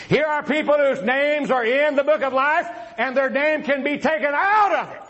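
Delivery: high, emphatic pulpit delivery; forceful preaching. Real, not acted. Debater challenging his opponent on the book of life, forceful preaching. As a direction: proclaim the point to the whole room.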